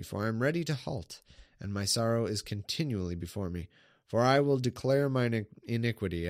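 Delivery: measured solemn Bible reading; scripture reading. Acted. Streamer reading the psalm aloud to viewers, solemn. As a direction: read the psalm like a sermon text.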